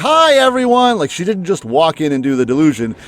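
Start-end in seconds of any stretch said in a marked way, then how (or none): 0.0-1.0 high, loud, cheery call, projected across a room. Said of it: "by going into the classroom and saying".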